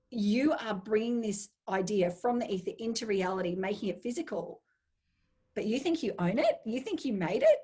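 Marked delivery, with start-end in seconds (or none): 5.5-7.6 mocking amusement. The idea mocks its supposed owner.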